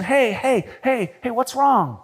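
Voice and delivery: acted-out compassionate concern; compassionate questioning. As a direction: gently coax someone who is crying to open up. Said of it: "ask them a deeply compassionate question".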